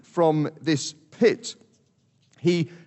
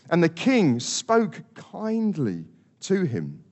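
plain; slower than usual. Shown as a demonstration. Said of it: "Verse twenty-eight says".

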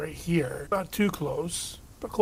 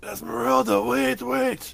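calling out; 8 semitones higher than usual. Acted. Calling after fleeing woman.

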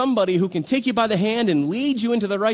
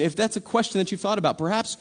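ordinary delivery

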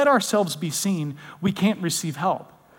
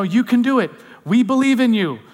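louder, higher roadside cheer for a runner; encouraging cheer; 3 semitones higher, 4 dB louder than usual. Acted. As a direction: cheer them on supportively. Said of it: "there's that encouragement".

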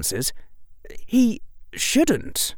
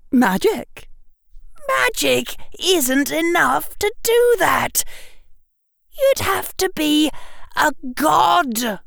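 frantic outburst. A narrator's reading. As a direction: rant as if the world broke. Harry's outburst continues.

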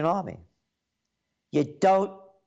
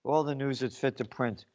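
softer, lower, mocking the motto; sneering slogan; 3 semitones lower, 5 dB quieter than usual. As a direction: throw their slogan back with contempt. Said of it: "we'll tell you".

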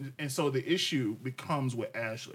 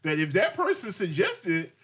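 slow, mocking higher quote, rising toward the end; mimicking partner's words; 3 semitones higher, slower than usual. Husband mimics wife's excuse during argument, mocking. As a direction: parrot her words back slowly and mockingly. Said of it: "but then you said".

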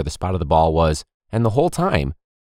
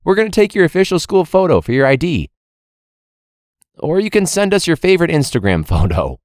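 high, loud cheery official voice; teacher parodying the school photo announcement; mock school announcement; 10 semitones higher, 5 dB louder than usual. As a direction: sell it like an overeager office.

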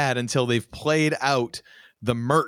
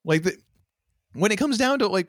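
normal talking voice

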